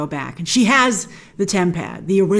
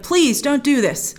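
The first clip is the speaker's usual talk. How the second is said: slower, higher imitated plea; retold pleading; 4 semitones higher, slower than usual. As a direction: lightly act out begging someone to stop. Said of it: "he's just pleading with her".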